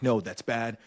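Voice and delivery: lightly imitated African accent; a solemn scolding in a put-on African accent; a singer. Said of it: "I'm doing that accent".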